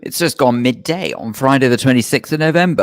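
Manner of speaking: mouth full. Real, not acted. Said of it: "Have you got a mouthful of crisps?".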